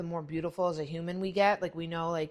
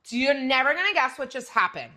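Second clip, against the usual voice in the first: put-on excited teen daughter; 4 semitones higher, 6 dB louder than usual. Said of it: "she goes".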